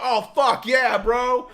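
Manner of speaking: loud, high, laughing fuck-yeah shout; excited shout with laughs. Retold or imitated. Guest cheering about tapas, loud and laughing. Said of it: "You'd be like".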